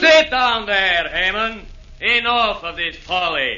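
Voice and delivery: slow, low commanding order to sit; heavy scolding command; stern rebuke. Acted. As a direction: put the upstart back in his place. Devils' meeting quarrel, Ivan silences Hayman.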